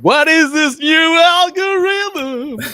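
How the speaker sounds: put-on high, loud, slow Latina accent. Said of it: "can't help but say that in a Latina accent".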